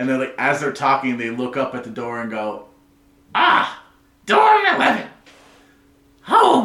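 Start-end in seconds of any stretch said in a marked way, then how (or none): 3.3-6.7 shrill, very high, loud character voice. Describing someone who looks up at your dorm door, doing the person's voice. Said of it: "I will do my best to do the voice".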